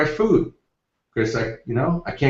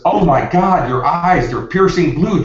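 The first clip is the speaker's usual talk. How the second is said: retold gasp of amazement, higher and louder; imitated excited recognition; 4 semitones higher, 4 dB louder, slower than usual. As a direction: act out her thrilled surprise, pitched up. Voices the woman's delighted recognition.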